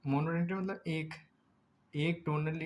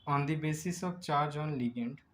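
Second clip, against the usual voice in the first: slow dictation; much slower than usual. Shown as a demonstration. Teacher dictating a heading.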